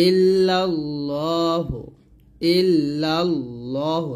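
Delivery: ইল্লাল্লাহু with a thick, rounded 'llaw'; heavy L pronunciation. Shown as a demonstration. Teacher modelling for learners, thick drawn-out L. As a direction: say ইল্লাল্লাহু with heavy L and long vowel. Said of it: "এটা একটু মোটা করে পড়বেন".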